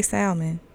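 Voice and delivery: salmon with an audible L, SAL-mun; L pronounced in salmon. Real, not acted. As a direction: sound the L in "salmon". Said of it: "it's a fucking L in it".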